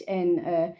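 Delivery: playful mock Dutch English; Dutch accent. Shown as a demonstration. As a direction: ham up a thick Dutch accent. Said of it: "if people made fun of a Dutch accent".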